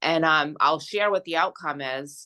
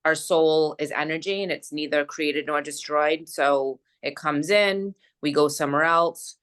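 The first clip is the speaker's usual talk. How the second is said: guided meditation. Acted. Friend guiding a closing energy visualization, calm meditation voice. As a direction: gently lead them through the visualization.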